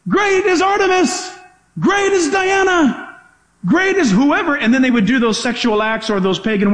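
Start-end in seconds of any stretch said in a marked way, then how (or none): 0.1-4.5 raised, slow chanting cry to an idol; mock crowd shout. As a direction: call it out like a worshipping crowd. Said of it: "They would shout up and say".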